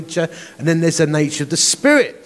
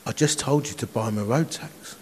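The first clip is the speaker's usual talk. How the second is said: whispered voice of the Spirit; 5 semitones lower, 8 dB quieter than usual. Retold or imitated. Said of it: "the Holy Spirit whispers".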